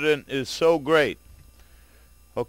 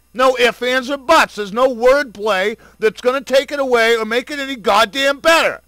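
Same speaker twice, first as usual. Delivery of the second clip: louder and higher, rising to a furious peak; angry climax; 4 semitones higher, 3 dB louder than usual. Real, not acted. Vlogger warning parents about radiation, building furious shout. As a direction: hammer it home, no backing down.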